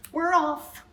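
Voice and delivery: high, loud crowd cheer; a crew's hearty shout. A narrator's reading. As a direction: cheer it out together. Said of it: "they all shouted".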